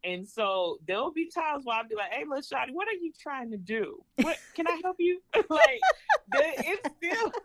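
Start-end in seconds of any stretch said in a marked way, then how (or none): 2.1-5.2 put-on sweet-talking a child in a Georgia country accent; a cheerful country Georgia accent, talking to a little one. Shown as a demonstration. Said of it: "I hear a little twang". 5.3-7.3 high, laughing through the words; can't stop giggling; real giggle breaking up the line. Real, not acted. Laughing after her demo.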